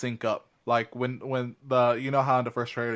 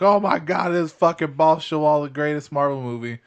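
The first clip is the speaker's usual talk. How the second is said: mock gushing; 4 semitones higher, 9 dB louder than usual. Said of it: "I didn't think it was like".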